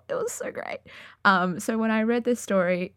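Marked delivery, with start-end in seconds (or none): 0.1-0.8 breathless, high whispered gush. Real, not acted. Podcaster gushing to listeners about dog scenes, whispered. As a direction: whisper it like you can't contain the joy.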